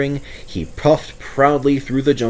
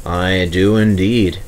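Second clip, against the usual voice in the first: slow, grave agreement; gravely; 3 semitones lower than usual. Acted. Edward agreeing gravely with Stepney, slow and solemn. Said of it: "said Edward gravely".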